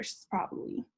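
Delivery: soft unvoiced whisper, almost to herself; whispering that grandma is standing right here; hushed whisper. Real, not acted. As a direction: breathe it out as if she's right beside you. Feels late grandmother's presence nearby.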